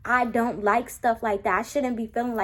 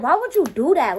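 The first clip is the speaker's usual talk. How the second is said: exasperated louder question; 4 semitones higher, 6 dB louder than usual. Retold or imitated. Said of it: "he looked back and I'm like".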